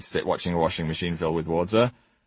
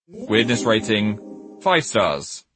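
announcer; much slower than usual. Acted. Recurring ranking announcement.

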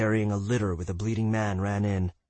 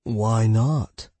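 forced brightness; 4 dB louder than usual. Acted. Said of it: "Hans tried to say brightly".

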